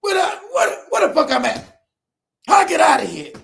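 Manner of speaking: hammed-up lost exasperation; mad. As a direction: cry out as if hopelessly lost. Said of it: "I'm all mad".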